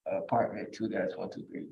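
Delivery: muffled. Real, not acted. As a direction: talk through a hand over the mouth. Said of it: "you're muffled".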